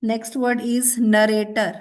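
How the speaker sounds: slow, deliberate dictation; spell-test reading pace. Shown as a demonstration.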